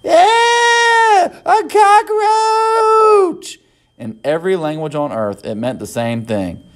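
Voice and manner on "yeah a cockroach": high startled shout. Acted. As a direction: shriek at the bug in disgust. Someone spots the cockroach.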